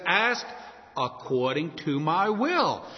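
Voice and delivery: slow, weighted quote, will stressed; stress on the condition. Retold or imitated. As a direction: lean on according to my will. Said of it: "He says".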